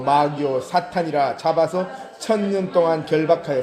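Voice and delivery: formal, forceful Bible reading; scripture reading. Acted. Preacher to congregation, a vision of the angel, firm scripture reading. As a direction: read the verse out firmly to a congregation.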